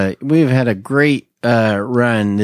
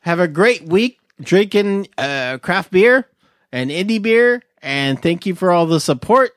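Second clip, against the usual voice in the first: upbeat sign-off; 5 semitones higher than usual. Real, not acted.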